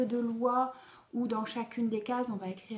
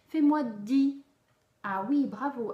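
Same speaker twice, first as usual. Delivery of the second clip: cheerful praise; 2 semitones higher, 7 dB louder than usual. Acted. Teacher prompts and praises child.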